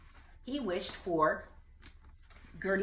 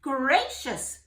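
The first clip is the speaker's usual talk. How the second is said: higher, louder amazed; exclaiming; 8 semitones higher, 7 dB louder than usual. Acted. Jubal hearing Gertie's news, exclaiming. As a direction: gasp in wonder. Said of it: "Jubal exclaimed".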